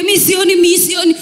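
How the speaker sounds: high, whiny protest of a lazy partner; mock shouted complaint.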